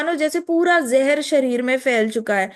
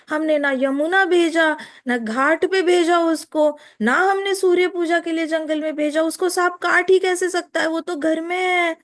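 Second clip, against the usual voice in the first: disbelieving; 4 semitones higher than usual. Acted. Jatila disbelieving snakebite.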